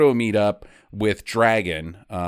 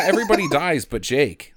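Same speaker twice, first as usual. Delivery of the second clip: laughing; 4 semitones higher, 3 dB louder than usual. Real, not acted. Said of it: "Like, everybody dies but Jake".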